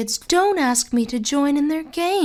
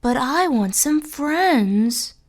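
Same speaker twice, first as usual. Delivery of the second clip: put-on sobbing girl; 13 semitones higher, slower than usual. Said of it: "sobbed Karina".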